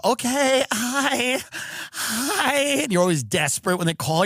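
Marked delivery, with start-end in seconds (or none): 0.0-2.6 eager greeting. Retold or imitated. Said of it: "and you go".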